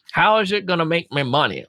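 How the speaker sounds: sales leader from the American South, put on; Southern US accent. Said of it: "they're not all from the South".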